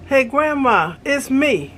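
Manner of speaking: lightly voiced pleading teen; teenager in need. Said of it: "sound like a teenager in need".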